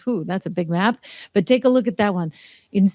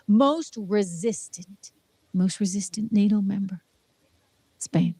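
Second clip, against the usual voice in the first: dramatic hushed reveal; 4 dB quieter than usual. Pretend. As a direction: announce the worst one like a secret. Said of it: "dramatic reveal".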